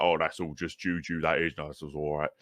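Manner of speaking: put-on dismissive old London dad; dad's voice. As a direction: brush it off like a gruff old dad. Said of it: "that's my dad's voice".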